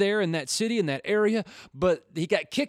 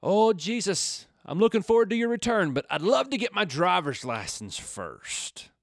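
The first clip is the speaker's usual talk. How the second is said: put-on kid's prayer; 3 semitones higher than usual. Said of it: "I used to think".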